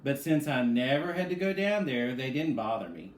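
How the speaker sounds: put-on lively storybook read-aloud for kids; animated picture-book narration; reading to children. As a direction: read it like story time with young listeners.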